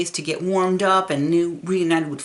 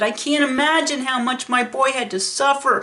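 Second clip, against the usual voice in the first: much higher and louder, grief-stricken pleading; crying out through sobs for his boy; between sobs; 8 semitones higher, 5 dB louder than usual. Retold or imitated. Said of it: "between sobs he said".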